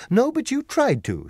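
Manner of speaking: high, loud snapping comeback; sharp retort. Acted. Dorothy retorts to the lion, high and loud. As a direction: fire it straight back at him. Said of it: "she retorted".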